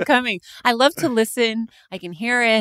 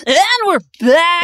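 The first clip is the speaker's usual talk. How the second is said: Dutch DJ voice; 4 semitones higher, 3 dB louder than usual. Acted. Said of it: "Why did you sound like a Dutch D J?".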